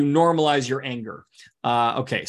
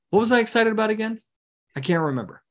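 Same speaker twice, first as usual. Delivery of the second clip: dazed nine; 6 semitones higher, faster than usual. Retold or imitated. Nine forgetting excitement.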